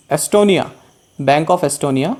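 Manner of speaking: ordinary talk, nothing marked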